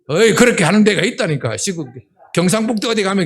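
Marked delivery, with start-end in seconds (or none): 0.1-1.6 imitated country call. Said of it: "자기 엄마도 자네가 이렇게 얘기해요".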